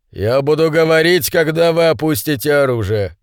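ordinary delivery, nothing marked

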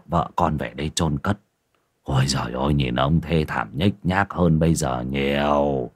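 lightly played tavern keeper complaining about hard times; a hint of a boozy village host; lightly voiced innkeeper. Narrator voices Thịnh.

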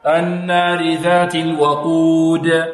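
slow chanted verse, الوقود with clear "wa" and bouncing final d; balanced open a. Shown as a demonstration. Teacher models the verse, medium "wa" in الوقود. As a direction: draw out الوقود, a medium, d echoed. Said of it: "الفتح متوسط".

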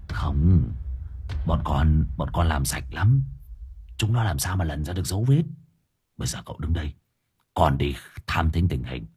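a scheming underling, voice dropped; sly servant voice. Acted.

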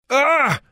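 sharp high yelp; overdone cry of pain. Acted. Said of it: "закричал слишком громко, с надрывом".

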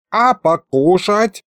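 indignant. Acted. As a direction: demand food, offended. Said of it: "возмутилась левая".

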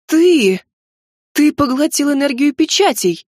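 loud, high accusing cry; sharp accusing shout; accusing exclamation. A narrator's reading. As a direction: hurl the accusation at him. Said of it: "обвинительно воскликнула я".

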